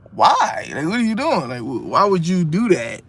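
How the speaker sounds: sudden high-pitched incredulous why; exasperated why. Real, not acted. Fan baffled by the rapper shelving songs, incredulous. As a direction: throw up your hands in disbelief. Venting at the artist's choices.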